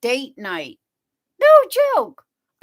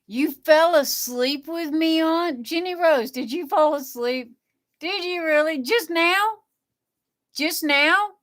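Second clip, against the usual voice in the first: surprised; 4 semitones higher than usual. Real, not acted. Viewer fell asleep during stream.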